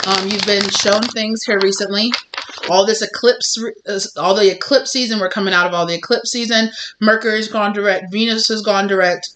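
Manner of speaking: talking with gum in mouth; chewing gum. Real, not acted. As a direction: speak around a wad of gum. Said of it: "Sorry, I have gum in my mouth".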